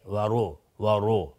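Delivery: وارو with a full, heavy R. Shown as a demonstration. Teacher correcting the R, heavy R in وارو. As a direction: say وارو with a thick R, never like وره.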